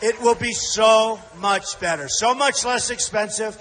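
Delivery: rally speech. Real, not acted. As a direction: fire up the crowd. Rally crowd address.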